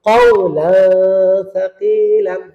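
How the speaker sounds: কওলান stretched, its n a long nasal hum into সাকিলান; slow কওলান সাকিলান with hidden n; ikhfa pronunciation. Shown as a demonstration. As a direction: hold the ghunnah at the end of কওলান. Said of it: "আবার".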